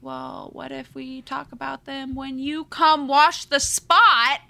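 mock seductive offer; flirty heroine. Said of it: "she was like".

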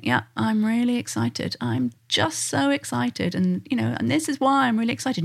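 put-on understated excitement, calmly reported as if by a child. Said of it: "just sit there calmly going".

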